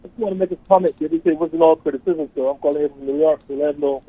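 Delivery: off mic, speaking from a distance; talking away from the phone on speaker; far from mic. Real, not acted. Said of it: "you sound a little off mic".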